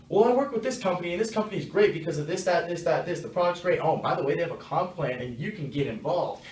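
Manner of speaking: lightly mocking a salesman who won't stop pitching; sleazy salesman pitch. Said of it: "now you're sounding like, you know, some sleazy salesman".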